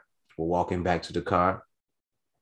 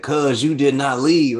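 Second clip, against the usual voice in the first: cousin's disbelief; 7 semitones higher, 9 dB louder, slower than usual. Retold or imitated.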